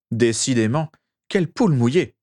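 lightly voiced sneering brother; hissing voice. A narrator's reading. Brother mocking Regulus as a coward, a hint of a hiss. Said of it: "dit Sirius d'une voix sifflante".

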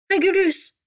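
high, loud panicked cry; affolement. A narrator's reading. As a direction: call out in alarm, pitch jumping up. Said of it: "s'affolèrent Bellatrix et Narcissa". (cri aigu et affolé)

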